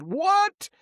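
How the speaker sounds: high, loud shocked what; teacher stunned by the boy's claim. Retold or imitated. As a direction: gasp it out in disbelief. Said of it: "the teachers almost fell over and said".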